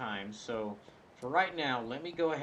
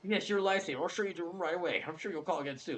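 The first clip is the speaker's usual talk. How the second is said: a bit higher confiding clerk voice; lightly higher clerk voice; chatty clerk; 7 semitones higher, faster than usual. Acted. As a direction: gossip about the weird caller. Clerk thanks.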